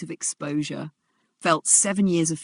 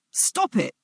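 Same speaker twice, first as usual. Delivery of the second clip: cracking voice; 8 semitones higher than usual. Acted. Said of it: "Elena's voice cracked".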